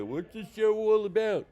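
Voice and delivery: high, loud curious audience member; lightly voiced curious audience member; mock audience member. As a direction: voice a guest walking in. Voicing arriving audience members.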